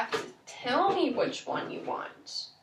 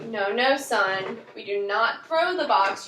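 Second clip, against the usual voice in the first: slow, loud, stern correction; stern warning; 2 semitones lower, 5 dB louder, slower than usual. Acted. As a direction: spell out the rule slowly. Parent stopping child throwing.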